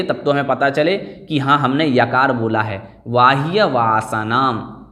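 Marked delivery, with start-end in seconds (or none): 3.1-4.9 बाह्य said slowly, ending in a clear full य, like बाहिय; full ya sound. Shown as a demonstration. Teacher making students hear the full य in बाह्य. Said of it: "इस प्रकार से हमें उच्चारण करना है".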